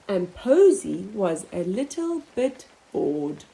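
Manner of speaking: lively picture-book narration; storybook voice; reading to children. Acted. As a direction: read it with wide-eyed expression for little ones.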